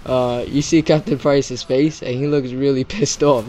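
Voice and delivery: real laughter in the voice; tickled by a funny memory; amused, laughing. Real, not acted. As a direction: talk slowly through giggles. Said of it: "that part had me laughing".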